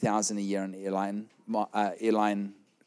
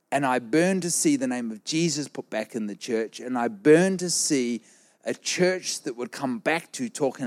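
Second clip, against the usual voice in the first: rising, fervent sermon delivery; passionate preaching. Acted. Preacher urges the church to return to Jesus, fervent. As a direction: preach it with burning conviction.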